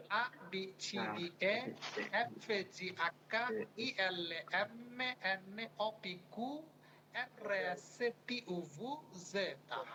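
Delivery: put-on reciting the Italian alphabet letter by letter like a child; alphabet recitation. Shown as a demonstration. Teacher recites the alphabet aloud for students to copy. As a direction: chant each letter in turn, a short pause after each. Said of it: "Italian বাচ্চারা কিভাবে পড়ে".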